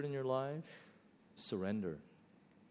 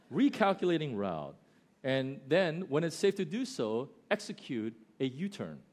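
lightly imitated navigation prompt, neatly phrased; simple GPS voice. GPS correcting a lost driver, simple and clear. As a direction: give it as a simple, clear instruction. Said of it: "It's just really simple".

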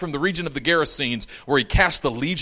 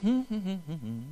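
carefree humming; 4 semitones higher, 8 dB quieter than usual. Retold or imitated. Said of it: "Jesus is just happy-go-lucky".

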